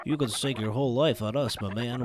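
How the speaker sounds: lightly put-on cocky gent, boasting; bragging bro voice. Hired hand brags to the boss, cocky put-on voice.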